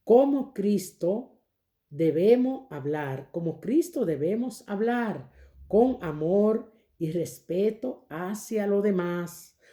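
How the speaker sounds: very slow, measured read-aloud; deliberate lesson reading. Real, not acted. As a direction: read it out phrase by phrase, slowly. Reads the lesson text aloud. (lectura pausada y solemne de la lección)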